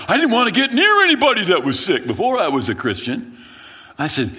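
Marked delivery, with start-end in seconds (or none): 0.1-3.4 high, loud, exaggerated protest; emphatic loud admission. The young convert answering his pastor, a loud emphatic admission. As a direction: blurt it out loudly.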